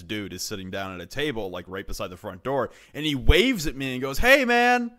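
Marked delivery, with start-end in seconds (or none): 4.2-4.9 high, loud imitated greeting; mock cheery shout across a bar; retold friendly hail. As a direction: call out like an over-friendly acquaintance. Stranger waves and calls out.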